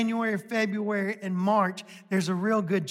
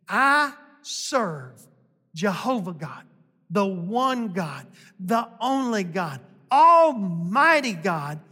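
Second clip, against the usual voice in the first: prophet's declaration. Retold or imitated. Preaching Elijah's declaration.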